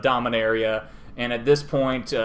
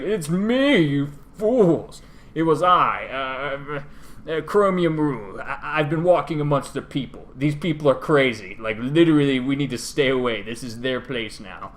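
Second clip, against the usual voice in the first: dragon reveal; 3 semitones higher, 3 dB louder than usual. Retold or imitated. Dragon unmasking himself to fools, hammed-up grandeur. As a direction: ham up a lofty dragon lord. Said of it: "a giant silvery dragon".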